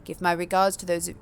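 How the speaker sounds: a hint of a formal, soft-spoken prince; calm ruler closing the meeting, understated; lightly voiced vampire prince. Prince voice again.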